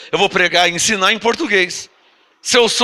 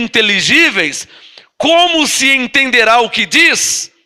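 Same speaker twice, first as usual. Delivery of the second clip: slow scripture reading; much slower than usual. Acted. Pastor reading Corinthians to the church, slow and solemn. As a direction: intone the verse slowly to the church. Reads scripture aloud slowly.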